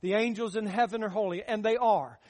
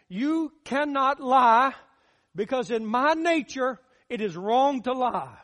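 God speaking. Acted. Preacher voices God's commandments.

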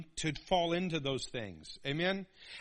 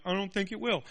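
lightly voiced defiant boy; a hint of stubborn teen; cocky kid. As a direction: shrug off the warning. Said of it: "And you're like".

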